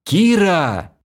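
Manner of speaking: high, loud cry of her name; high shout after a leaving friend; desperate shout. A narrator's reading. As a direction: call her back with everything. Hero shouts.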